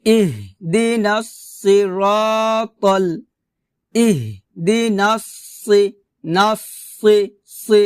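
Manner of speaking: slow "ইহদিনাস" with a thick emphatic s (sad); measured recitation, "সি" with velarized s; heavy sad sound. Shown as a demonstration. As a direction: make the s of "সি" heavy and full. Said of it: "সি কিন্তু হবে না".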